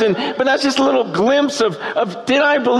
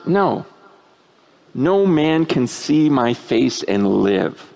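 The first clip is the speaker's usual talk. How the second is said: lower, slow and solemn as God; 9 semitones lower, slower than usual. Acted. Preacher quoting God to Moses, low slow and solemn. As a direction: speak it like God's own verdict, low and slow.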